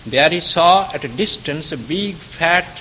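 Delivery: measured storytelling read aloud; calm read-aloud narration; story narration. A narrator's reading. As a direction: tell the parable steadily to listeners. Reads a moral story aloud.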